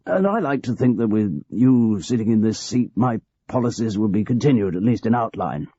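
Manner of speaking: a hint of a cosy old manager confiding; aging boss George. George continues.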